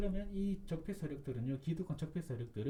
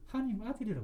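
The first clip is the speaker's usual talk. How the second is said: quoting Jesus; 6 semitones higher than usual. Acted. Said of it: "예수님께서 뭐라 그랬냐?".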